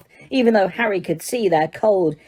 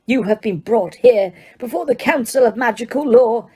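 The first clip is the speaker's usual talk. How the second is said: stern judge, a touch higher and firm; Crouch, clearly; 5 semitones higher than usual. Acted. Judge addressing the accused, crisp and stern. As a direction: lay out the charge coldly to the court. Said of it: "he said clearly".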